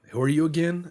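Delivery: high, loud, puzzled voice of a confused neighbour; baffled foreigner. Retold or imitated. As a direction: ask it like you've never met them. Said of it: "And they'll be like".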